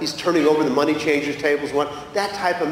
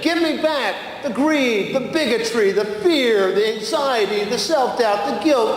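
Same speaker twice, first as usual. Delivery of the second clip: firm Jesus; 4 semitones higher than usual. Retold or imitated. Jesus lists what he wants back.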